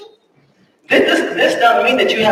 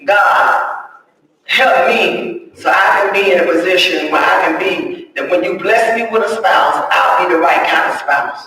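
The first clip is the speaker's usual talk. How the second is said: humble prayer. Shown as a demonstration. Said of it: "Your prayer should be".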